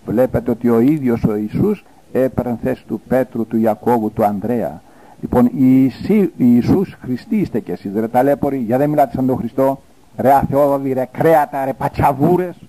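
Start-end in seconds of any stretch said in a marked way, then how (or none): 5.2-12.6 berating insults. Real, not acted. Preacher berating priests with insults.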